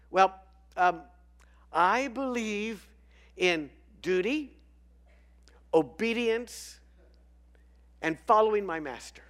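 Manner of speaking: loud, high, earnest dog; eager dog voice. Acted. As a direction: play a dutiful eager dog. German shepherd voiced in joke.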